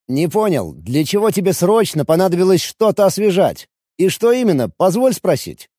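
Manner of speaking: lightly voiced violinist, demanding answers; a hint of an edgy fiddler's voice; irritated violinist.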